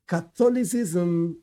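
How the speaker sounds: Catholicism drawn out slowly; stress on Catholicism. Real, not acted. Teacher singling out one church for students, stressing Catholicism. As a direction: say Catholicism slowly, as the key word. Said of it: "I stress this word again".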